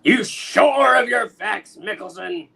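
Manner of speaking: barked question; gruff editor shout. Acted. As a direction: bark it like a tough boss. Jonah interrogating reporter.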